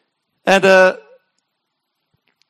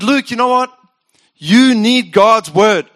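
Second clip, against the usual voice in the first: louder, slow, insistent; inner voice rebuking; 2 semitones higher, 6 dB louder, slower than usual. Retold or imitated. Preacher voicing God's nudge to himself, insistent. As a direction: say it like a stern wake-up call.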